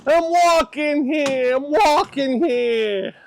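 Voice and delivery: very high, loud, drawn-out mock yell; mock indignant shout. Vlogger echoing the film clip about walking, hammed-up indignant shout. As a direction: holler it way up high, each word stretched. Repeats the quoted movie line.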